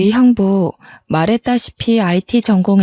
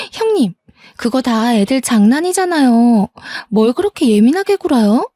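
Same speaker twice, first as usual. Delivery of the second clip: higher voice with swooping, teasing tune; dismissive sister-in-law; 4 semitones higher than usual. Acted. Sister-in-law brushes off her elder's complaint, airily dismissive. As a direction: brush it off with airy condescension.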